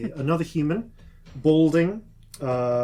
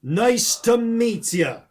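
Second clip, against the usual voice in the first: hearty orc greeting; 6 semitones higher, 9 dB louder than usual. Acted. Orc introducing himself to the party, loud and hearty. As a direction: greet them like a jolly big orc.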